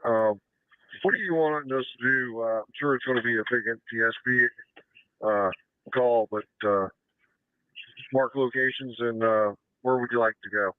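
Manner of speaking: ambulance radio. Real, not acted. Dispatch radio traffic.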